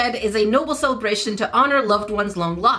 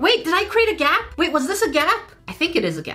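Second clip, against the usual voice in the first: flustered, panicky voice, high-pitched; 6 semitones higher than usual. Player shaping a head in a game spots a possible gap; panicking. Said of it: "I'm panicking for no reason".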